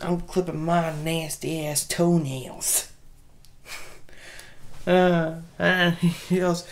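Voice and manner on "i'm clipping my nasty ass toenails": put-on kid voice. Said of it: "He sits there".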